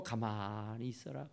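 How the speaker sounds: 가만히 있어라 low and soft with a rise at the end; preacher softly echoing Moses' command; calm command. Retold or imitated. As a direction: repeat Moses' words quietly. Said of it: "그 말이에요".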